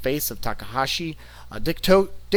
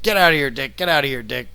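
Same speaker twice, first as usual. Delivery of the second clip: imitated commentator yelling, only moderately raised; mock yell, louder at first, then easing; Kevin Kelly; 2 semitones higher, 5 dB louder, faster than usual. Podcaster imitates the commentator screaming at Dick, mock yell. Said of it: "Kevin Kelly's just screaming at Dick".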